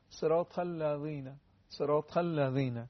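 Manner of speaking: tongue tip at upper teeth on the ذ of "الذین"; thin, light dhal. Shown as a demonstration. Teacher repeating for viewers, thin dhal in "الذین". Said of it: "خیلی صدای نازک و کم حجم".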